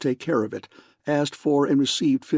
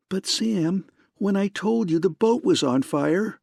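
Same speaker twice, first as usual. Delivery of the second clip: high, protesting; much higher, upset; indignant; 8 semitones higher than usual. A narrator's reading. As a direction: reproach him in disbelief. She argues with Spade.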